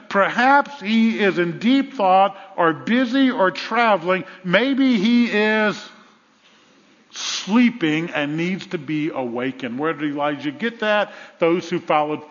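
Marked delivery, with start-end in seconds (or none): 0.1-9.8 slow, drawn-out mock speculation; taunting. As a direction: muse sarcastically, stretching it out. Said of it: "began to taunt them".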